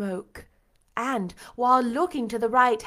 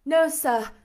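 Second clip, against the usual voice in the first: high, louder urgent reply; urgent young-woman character; 6 semitones higher, 6 dB louder than usual. A narrator's reading. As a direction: answer him high and urgently. Jane answers startled Rochester urgently.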